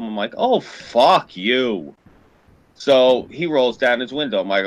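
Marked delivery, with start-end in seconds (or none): 0.4-1.9 mouthed. Retold or imitated. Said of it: "I mouth to him".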